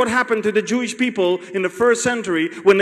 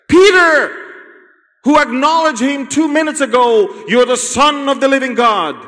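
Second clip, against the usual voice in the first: proud Peter; 7 semitones higher, 5 dB louder than usual. Acted. Peter's proud boast, acted.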